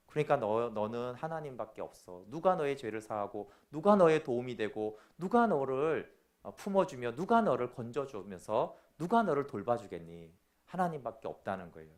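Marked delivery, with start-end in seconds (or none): 0.1-10.3 tender rebuke. Acted. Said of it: "성령님의 책망은 뭐예요".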